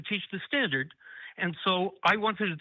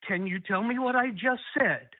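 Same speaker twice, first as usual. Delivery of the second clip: strained-free calm. Real, not acted. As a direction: keep it calm, spacing the words out. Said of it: "I'm trying to remain calm".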